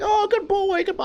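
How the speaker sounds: put-on high sing-song good-boy voice; baby talk to dog. Petting the neighbor's pit bull, high cooing baby talk. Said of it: "I'm like".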